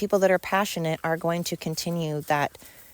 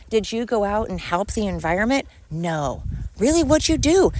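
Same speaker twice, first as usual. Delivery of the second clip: sarcastic; 2 semitones higher than usual. Real, not acted. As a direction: needle them with fake interest. Sarcastic questioning of protester.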